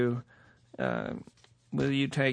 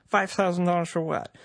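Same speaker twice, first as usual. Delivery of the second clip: pitched higher, incredulous question; indignant disbelief; 6 semitones higher than usual. Acted. Podcaster outraged at the fine from the official, incredulous. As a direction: throw the figure back in disbelief.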